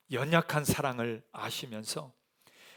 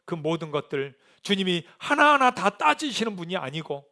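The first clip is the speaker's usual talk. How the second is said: ordinary delivery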